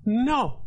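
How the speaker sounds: firm, drawn-out "no"; "no" set apart with a falling tone; emphatic no. Shown as a demonstration. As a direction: land hard on "no" as a final answer. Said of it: "It's a pretty emphatic no".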